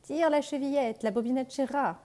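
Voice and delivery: the wolf sweetening his voice; wolf softening voice. Acted. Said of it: "en adoucissant un peu sa voix". (loup qui adoucit sa voix, lentement)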